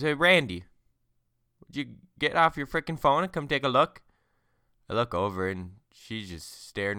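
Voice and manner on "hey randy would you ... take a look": higher, much louder exasperated yell; wife shouting at her husband to get off his phone; annoyed wife yelling. Acted. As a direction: snap him off his phone, fed up.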